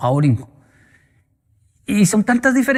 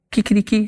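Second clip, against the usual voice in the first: rooster crow; 4 semitones higher than usual. Retold or imitated. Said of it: "la gallina en Colombia hace".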